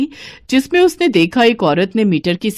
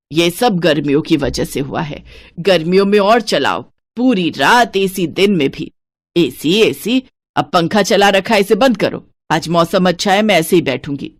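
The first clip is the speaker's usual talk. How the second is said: lightly lowered stingy mother-in-law voice. Acted. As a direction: count every piece like a miser. Santosh complains.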